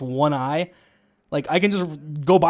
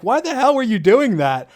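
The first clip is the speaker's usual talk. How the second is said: higher-pitched, exasperated mock yell; imitated yelling; 7 semitones higher, 3 dB louder than usual. Teammate scolding another after the manhunt, mock yelling. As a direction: retell it as an indignant telling-off. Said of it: "was, like, yelling at him".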